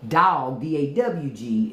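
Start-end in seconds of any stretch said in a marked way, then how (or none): 0.1-0.6 "Dog" opened up into "dawg"; Southern pronunciation. Shown as a demonstration. Contrasting South with Baltimore, broad "Dog". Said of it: "is a dog in the South".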